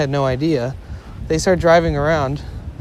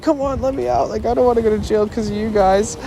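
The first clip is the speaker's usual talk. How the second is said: desperate pleading; 7 semitones higher, faster than usual. Retold or imitated. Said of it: "And he was like".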